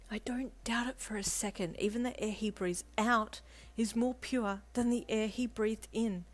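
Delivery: emphatic, high-voiced co-worker. A narrator's reading. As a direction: declare it with total fangirl conviction. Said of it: "co-worker replied emphatically".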